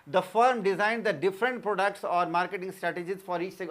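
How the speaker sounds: very slow, evenly spaced words for note-taking; teacher dictating notes word by word; slow dictation. Acted. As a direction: read it out slowly so students can write. Reads English definition as dictation.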